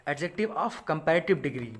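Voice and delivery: very slow heading read word by word; slow dictation. Shown as a demonstration. Teacher to class, reading the rule heading very slowly. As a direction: spell out the rule title slowly.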